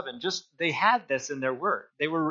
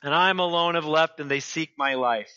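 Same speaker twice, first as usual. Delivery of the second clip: Elijah repeating his complaint; 5 semitones higher than usual. Acted. Elijah answering God again, pleading, fading. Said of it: "he repeats himself".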